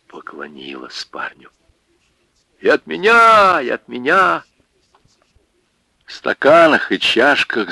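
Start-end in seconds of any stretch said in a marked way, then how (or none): 2.6-4.4 louder, higher eager call; eager offering. Acted. Women offering Михаил drinks, eager. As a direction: push forward to offer too.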